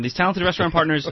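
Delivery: these talented restaurant partners, read again with relish and weight; savouring the praise. Shown as a demonstration. Host rereading the praise for his cohost, savouring it. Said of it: "Let me read that again".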